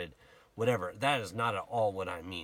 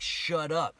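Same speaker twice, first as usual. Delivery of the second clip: loud, raised-pitch scolding; retold rebuke; 8 semitones higher, 7 dB louder than usual. Passers-by silence the blind beggar, retold rebuke. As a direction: act out a sharp telling-off. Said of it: "Many rebuked him".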